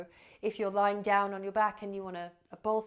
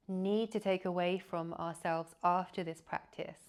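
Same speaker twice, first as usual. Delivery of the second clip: guided meditation. Real, not acted. Yoga teacher leading listeners into body awareness, calm guided meditation. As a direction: guide them gently into rest, leaving long silences.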